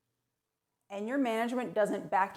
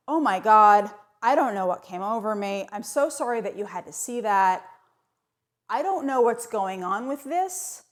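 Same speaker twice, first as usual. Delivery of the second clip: hammed-up distress; 5 dB louder than usual. Mock apology to the manager.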